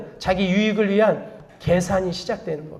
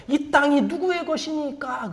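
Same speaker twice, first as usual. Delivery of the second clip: slow, softer question with a drawn-out ending; pious-sounding question; 2 semitones higher, 5 dB quieter, slower than usual. Acted. Envoy brings Abner's word to David, slow drawn-out question. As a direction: stretch out the envoy's question, softly.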